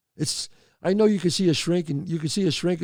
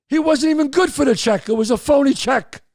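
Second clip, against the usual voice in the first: incredulous; 9 semitones higher, 5 dB louder than usual. Real, not acted. Marvelling at the phony check.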